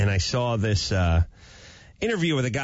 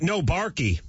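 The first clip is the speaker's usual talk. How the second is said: put-on babyish no barky, slightly higher; baby talk; 5 semitones higher than usual. Shown as a demonstration.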